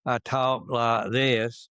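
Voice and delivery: slow Georgia Southern accent demo. Shown as a demonstration. Telling the interviewer how he talked in Georgia, in a slow Southern accent. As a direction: slowly show off the Southern Georgia accent you grew up with. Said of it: "when I was down and came from Georgia".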